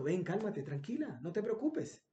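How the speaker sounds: calm her down like a kind stranger; soothing. Acted. Man comforts crying young woman. (consolando con voz suave)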